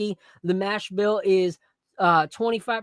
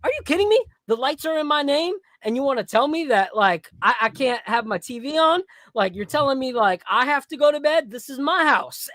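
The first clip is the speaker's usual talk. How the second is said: put-on high, outraged child voice, rising in pitch; indignant kid; 6 semitones higher than usual. Comedian retelling a child comic's rant, high indignant kid voice. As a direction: play a furious little boy ranting about his own house. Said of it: "And he's like".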